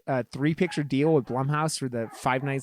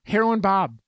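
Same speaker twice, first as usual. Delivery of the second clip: pointed, slightly raised reminder; insistent; 5 semitones higher, 3 dB louder than usual. Real, not acted. Co-host argues about Hackers, insistent. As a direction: press the name on your co-host. Repeating a name to press point.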